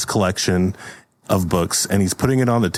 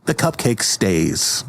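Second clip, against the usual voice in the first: stern fairy; slower than usual. Pretend. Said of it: "then a fairy comes by".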